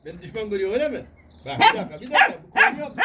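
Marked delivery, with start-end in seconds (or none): 1.4-2.9 high, loud mock telling-off; play-scold the dog, half in jest; a pet owner's hammed-up scolding.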